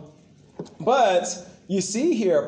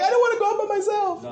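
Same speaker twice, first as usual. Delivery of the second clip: mock timid Paul; faster than usual. Mock whiny Paul quote.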